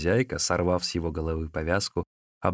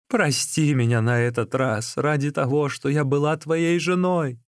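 wife pleading with her husband, higher begging voice; 7 semitones higher than usual. Acted. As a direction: beg him for mercy. Wife begs forgiveness.

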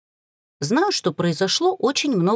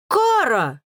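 indignant; 5 semitones higher than usual. A narrator's reading. Liam protesting at Kara, indignant cry. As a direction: protest her name. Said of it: "возмутился Лиам".

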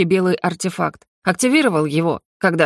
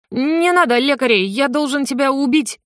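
tragic declaration; 7 semitones higher than usual. A narrator's reading. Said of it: "трагически заявил".

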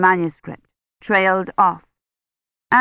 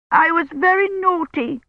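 put-on high little-girl voice, confessing; childish voice; 11 semitones higher than usual. A narrator's reading. Feverish old woman confesses to Daddy in a high childish voice. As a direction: sound like a small girl owning up. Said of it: "in a childish voice".

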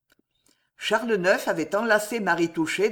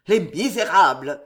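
louder, spitting the insult; growled; 6 dB louder than usual. Acted. The delirious king cursing his imagined enemies, growling. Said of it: "gronda-t-il".

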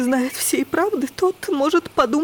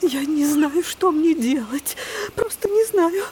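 flustered; 2 semitones higher, slower than usual. Acted. Aunt flustered, upset greeting.

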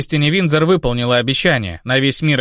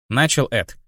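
ordinary delivery, nothing marked

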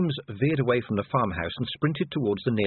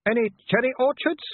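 put-on much higher, eager girlish voice; youngest sister hopeful; 12 semitones higher, 4 dB louder than usual. A narrator's reading. Youngest sister asks Vimes hopefully, much higher. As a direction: ask it like a dreamy young girl. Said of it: "youngest lingers".

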